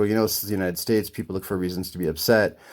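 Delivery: low, composed voice; real calm, retold. Customer who took a step back, speaking calmly. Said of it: "I just said, like, real calmly".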